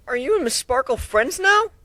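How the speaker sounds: put-on high, small childlike voice; little dragon voice. Little dragon asking the narrator, high and childlike. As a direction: ask it like a curious little dragon.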